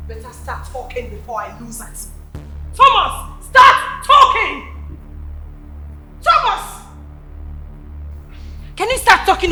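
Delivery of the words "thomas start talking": slow, firm and louder; angry demand. Acted. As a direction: press him hard for answers. Sister demands answers from Thomas.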